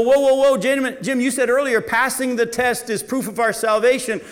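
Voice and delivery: high, loud incredulous objection; mock protest. Preacher voicing a congregation member's objection, loud and high. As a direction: voice the startled listener crying foul.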